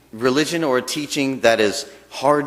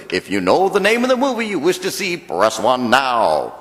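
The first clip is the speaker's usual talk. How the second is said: movie phone announcer voice. Retold or imitated. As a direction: read it like the automated phone menu. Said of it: "he goes".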